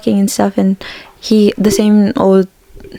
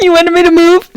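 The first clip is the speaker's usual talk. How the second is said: incredulous; 8 semitones higher, 4 dB louder than usual. Retold or imitated. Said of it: "incredulous quote".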